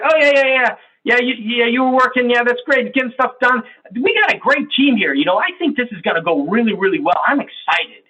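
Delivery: high, rushing enthusiasm that ignores the listener; an S teammate brushing off C's work, high and gushing; eager S type. Acted. S talks over C eagerly.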